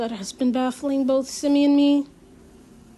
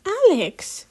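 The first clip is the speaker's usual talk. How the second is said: sharp scolding call of a name, higher and louder; 8 semitones higher, 5 dB louder than usual. Acted. Girl scolding her friend Alex for being rude, sharp. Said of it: "Simi scolds".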